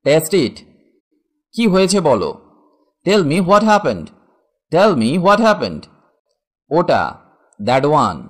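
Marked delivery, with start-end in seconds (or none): 3.1-5.8 slow teaching demo. Shown as a demonstration. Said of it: "teacher models English phrase".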